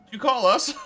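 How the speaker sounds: high, loud little weasel. Acted. Weasel answering when called, high creature voice. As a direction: pipe up as a weasel popping out. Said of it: "One of the weasels pops their head out".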